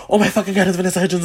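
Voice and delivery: excited crowd. Retold or imitated. Everyone spotting a celebrity, imitated excited crowd. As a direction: exclaim it like an excited onlooker. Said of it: "everyone's like".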